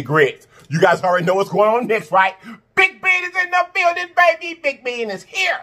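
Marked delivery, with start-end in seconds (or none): 2.8-5.6 much higher, excited hype call; hype announcement. Real, not acted. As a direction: announce it like a star arriving. Hyping the ham's arrival.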